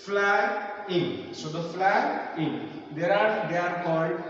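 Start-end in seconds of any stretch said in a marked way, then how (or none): 0.0-1.3 "Flying" divided into fly and in; split into syllables. Shown as a demonstration. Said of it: "fly is the first syllables". 1.7-2.7 "flying" slowly, fly then in; split into syllables. Shown as a demonstration. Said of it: "two syllabic".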